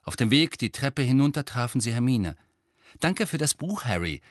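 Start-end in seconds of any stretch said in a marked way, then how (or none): 3.0-4.2 high, happy thanks, dropping at the end; cheerful. A narrator's reading. Hermine thanks Harry for his gift, cheerful and high. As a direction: thank him brightly, lifted in pitch. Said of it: "sagte sie fröhlich".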